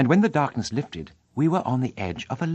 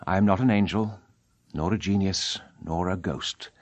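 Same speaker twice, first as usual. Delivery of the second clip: Eric's voice; 4 semitones lower than usual. Acted. Eric confesses to Christine.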